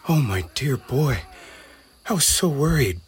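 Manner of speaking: mother calling out to her lost son. Acted. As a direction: call to him across the crowd in relief. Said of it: "Blinn's mother called".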